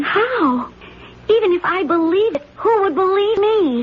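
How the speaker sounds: a cry breaking in, voice up high; wife near tears, pitched high and crying; tearful. Acted. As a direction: plead through tears, helpless.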